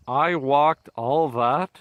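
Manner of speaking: slow, drawn-out disbelief; amazed. Retold or imitated. Hiker looking back at the day's distance, slow amazed disbelief. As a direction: stretch it out in wonder.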